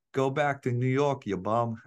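drawn-out mock yell at a visiting fan; retold yell. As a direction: imitate a ballpark heckler, a little half-hearted. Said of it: "somebody yelled".

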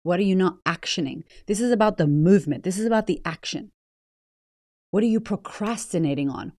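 ordinary delivery

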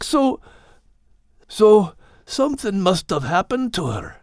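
a pup facing the truth, a touch grave; solemn puppy. Acted. Puppy Max admits his mum never came back, solemn. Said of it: "Max said solemnly".

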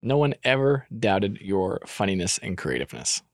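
low, measured mock solemnity. Husband repeats his praise of her funniness, mock-solemn. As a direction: drop the pitch and declare it gravely.

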